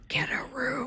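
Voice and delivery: playful mock whisper. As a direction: whisper it slyly, with a laugh behind it. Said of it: "Did you whisper".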